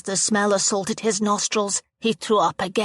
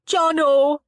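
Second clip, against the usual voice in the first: panicked shout; 9 semitones higher, 5 dB louder than usual. A narrator's reading. Trapped boy calls out.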